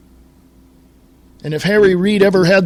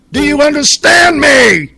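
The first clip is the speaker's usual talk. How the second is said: real angry yell, higher and louder; furious shout; 6 semitones higher, 5 dB louder than usual. Real, not acted. Host losing his temper at the senator, shouting. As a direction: bellow it at the listeners. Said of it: "Sorry, I get pissed off".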